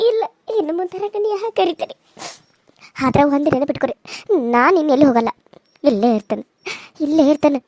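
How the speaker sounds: tearful, bitter accusation; ದುಃಖದ ಕೋಪ; bitter grief. Acted. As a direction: vow revenge through tears. Grieving daughter accuses the family.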